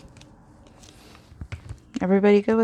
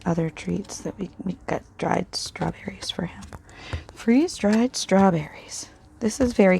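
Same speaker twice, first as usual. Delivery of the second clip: whispering. Real, not acted. Side remarks while working.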